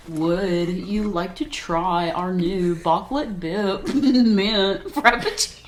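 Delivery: slow lilting barista pitch, chocolate mangled to "bip"; sing-song Starbucks order, half laughing; singsong barista. Pretend. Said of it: "It sounds like you're singing almost".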